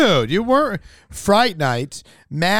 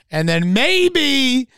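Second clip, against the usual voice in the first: hyped up; 4 semitones higher, 5 dB louder, slower than usual. Real, not acted. Hyping upcoming comedy shows.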